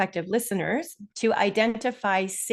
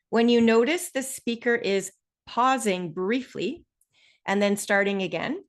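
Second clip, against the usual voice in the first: brief pauses after "pausing briefly"; deliberate pause. Shown as a demonstration. Teacher showing listeners how speakers pause, deliberate pausing. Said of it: "like I just demonstrated there".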